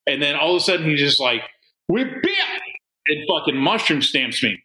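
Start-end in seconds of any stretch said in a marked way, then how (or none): 1.9-2.6 high squeaky battle cry; a jokey attack shout; playful mock yell. Eric smacking sleeping friend with dildo, high playful yell.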